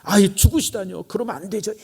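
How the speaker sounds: acted restrained remonstration; mild protest. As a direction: object gently, without real anger. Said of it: "이 정도가 아니라".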